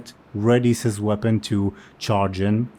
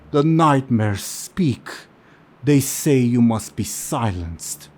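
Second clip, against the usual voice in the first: eerie keeper; 3 semitones higher, 3 dB louder than usual. Acted. Keeper of the grove warns the party, slow and eerie. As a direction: intone it like a voice possessed. Keeper relays the nightmare's will.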